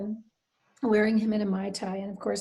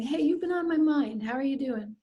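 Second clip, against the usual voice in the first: a touch higher, light and open; friendly check-in; 4 semitones higher than usual. Shown as a demonstration. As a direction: ask casually, like a friend catching up. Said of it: "and going up to someone and saying".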